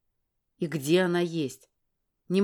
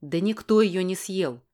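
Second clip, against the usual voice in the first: angry bark; 3 dB louder than usual. Acted. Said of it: "рявкнул в сердцах".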